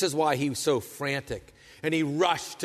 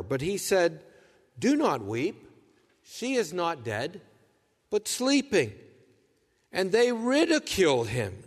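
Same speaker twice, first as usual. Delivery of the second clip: scripture reading; 3 semitones lower than usual. Acted. Formal public scripture reading.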